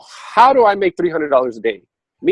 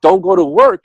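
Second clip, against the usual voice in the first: much higher, louder sing-song; the universe warning Richard, much higher and louder; universe's command; 9 dB louder than usual. Retold or imitated. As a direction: chirp it up high. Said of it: "the next time I get told".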